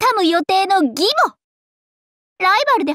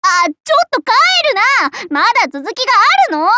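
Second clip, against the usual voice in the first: louder, higher call to stop someone leaving; 5 semitones higher, 4 dB louder than usual. Acted. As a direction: call after them not to go. Calls back leaving player. (帰ろうとする相手を呼び止める大きめの声)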